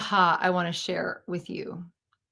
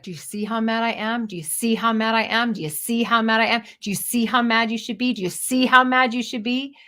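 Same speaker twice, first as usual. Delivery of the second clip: mock righteous anger; 3 semitones higher, faster than usual. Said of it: "every time I did that scene, I was like".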